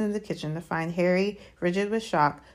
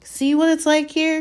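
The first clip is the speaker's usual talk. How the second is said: agitated; 10 semitones higher, 6 dB louder than usual. Acted. Harry pleading with the elf.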